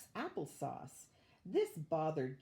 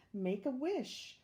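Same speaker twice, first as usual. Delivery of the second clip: eager cry; 5 semitones higher than usual. Acted. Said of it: "The children cried".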